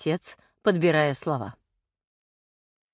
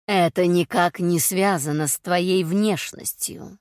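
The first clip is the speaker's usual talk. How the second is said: calm; slower than usual. Acted. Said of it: "спокойно ответила Агата".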